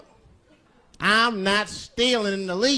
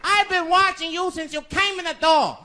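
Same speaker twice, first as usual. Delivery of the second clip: high-pitched furious store owner; angry shopkeeper; 14 semitones higher than usual. Retold or imitated. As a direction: shout at a suspected thief. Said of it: "Mister Fong said".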